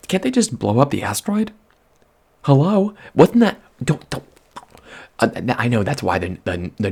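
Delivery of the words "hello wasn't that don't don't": exasperated. Real, not acted. Exasperated outburst.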